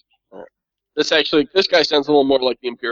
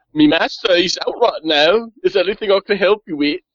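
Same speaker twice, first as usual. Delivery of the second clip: bad put-on Cockney accent; 4 semitones higher, 3 dB louder than usual. In a roleplay game, a servant character sent to the inquisitor introduces himself, bad cockney accent. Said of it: "almost had like a bad Cockney accent".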